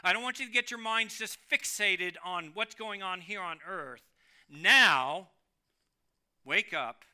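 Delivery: paraphrased voice of Jude. Pretend. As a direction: rouse the listeners to attention. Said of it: "It is really saying".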